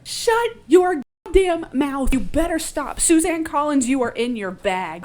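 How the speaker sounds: high, loud, excited scolding in admiration; awestruck outburst. Real, not acted. Host raving at author Suzanne Collins, excited outburst. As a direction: exclaim it high and loud, overwhelmed. Gushing over the author's line.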